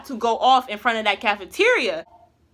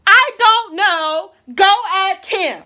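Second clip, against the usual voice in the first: curt dismissal; 6 semitones higher, 5 dB louder, slower than usual. Retold or imitated. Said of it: "My exact words".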